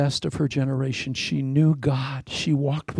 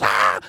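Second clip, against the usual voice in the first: startled waking yell; 6 semitones lower, 4 dB louder than usual. Retold or imitated. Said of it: "tickle him desperately and wake him up".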